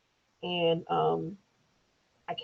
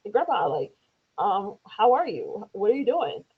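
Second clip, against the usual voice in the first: put-on young son's voice; 3 semitones higher than usual. Son calling his grandpa, lightly voiced child. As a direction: imitate a child chatting on the phone. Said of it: "my son gets on the phone".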